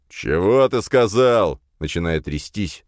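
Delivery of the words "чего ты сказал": slow, loud, higher bellow; roar. A narrator's reading. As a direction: boss roaring, starting to shake. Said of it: "заорал усач".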